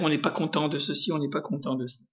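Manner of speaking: low, soft grumble trailing away; murmured grumbling. Acted. Preacher imitates discontented people complaining, murmured grumbling. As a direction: grumble under your breath. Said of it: "le murmure".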